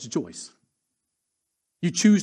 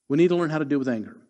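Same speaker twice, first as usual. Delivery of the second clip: fast repeat; faster than usual. Acted.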